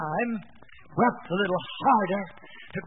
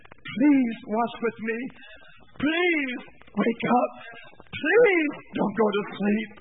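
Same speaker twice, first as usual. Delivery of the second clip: pleading; slower than usual. Acted. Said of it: "That was his cry".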